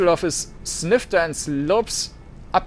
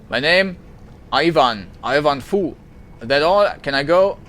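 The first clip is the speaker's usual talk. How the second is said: louder, clipped impatience; curt and hostile; 4 dB louder than usual. Acted. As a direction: want them gone now. Ivan curt answers.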